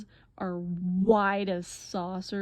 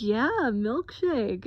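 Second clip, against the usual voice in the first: slow, louder, swooping playful yes; indulgent confirmation; 3 semitones higher, 4 dB louder, slower than usual. Retold or imitated. Boyfriend confirming milkshake to partner, playfully indulgent. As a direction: confirm it as if coaxing a small child.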